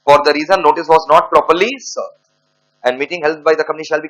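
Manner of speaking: dictating word by word to students; slow dictation. Acted. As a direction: spell it out slowly for the class to write down. Dictating the answer.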